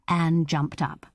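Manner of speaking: ordinary delivery, nothing marked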